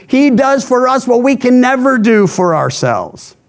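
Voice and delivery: normal talking voice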